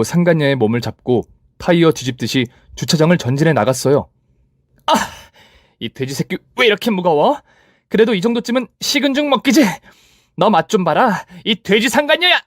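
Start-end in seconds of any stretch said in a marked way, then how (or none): 4.9-12.4 much higher, gleeful shouting; straining gleeful taunt. Acted. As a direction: roll her like a tire, gloating. Narrator rolls rival. (훨씬 높게 신나서 외치는 말투)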